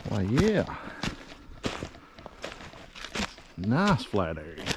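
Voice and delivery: winded after a steep climb; breathless, catching air between words; out of breath. Real, not acted. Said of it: "sorry, I'm out of breath".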